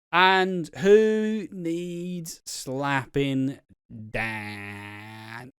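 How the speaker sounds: slow, drawn-out award announcer voice; dramatic announcer. Pretend. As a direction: announce it like a gala host.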